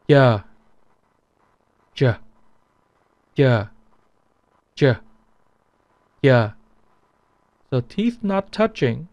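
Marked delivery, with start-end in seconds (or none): 0.1-6.5 Southern "Yeah" instead of "J"; Southern Vietnamese Y. Shown as a demonstration. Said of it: "they would pronounce it as yeah".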